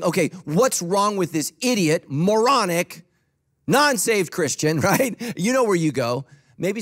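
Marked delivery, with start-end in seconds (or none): 0.0-4.8 a touch of mock indignation, piling up insults; mock judgmental. Offended believer judging another Christian, mock judgmental. Mocking an offended person's judgement.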